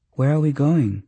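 high-pitched, questioning character voice; timid questioner. A narrator's reading. Kumiko asking Sally where they are going, high questioning voice.

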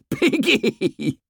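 put-on high, stretched-out boyish squeal; gleeful taunt. A narrator's reading. Ralph lies in sand mocking Piggy, high gleeful cry. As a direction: crow the nickname in a very high voice. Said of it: "lay there laughing".

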